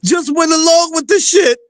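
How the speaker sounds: high, cracking with laughter; laughing while talking. Real, not acted. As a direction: barely get it out for laughing. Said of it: "laughing hard while telling".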